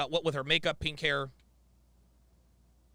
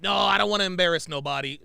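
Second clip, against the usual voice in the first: mock reluctance; 2 semitones higher, 7 dB louder, faster than usual. Mocks the clip woman's refusal.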